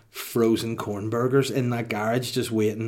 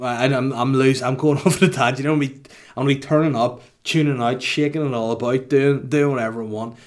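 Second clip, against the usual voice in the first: louder, fast party hype; hyped up; 3 semitones higher, 5 dB louder than usual. Real, not acted. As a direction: rattle it off all revved up.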